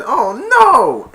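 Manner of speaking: high, loud alarmed "Oh no"; alarmed cry. Retold or imitated. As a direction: gasp it out in alarm. Grinch sees sleigh falling.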